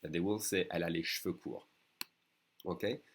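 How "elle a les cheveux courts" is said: cheveux run together as "shveu" in casual speech; everyday fast speech. Shown as a demonstration. Teacher showing how French people will say it, everyday fast speech. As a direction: say cheveux with the E dropped. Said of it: "You don't have to say that fast".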